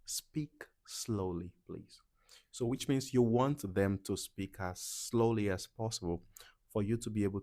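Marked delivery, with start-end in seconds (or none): 0.1-2.0 soft, slow whispered gloss; whispered translation. Shown as a demonstration. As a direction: murmur the meaning slowly.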